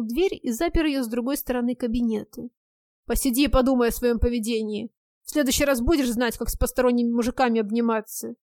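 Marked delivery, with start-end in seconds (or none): 3.1-8.3 angry scolding. Acted. Husband locks wife in room.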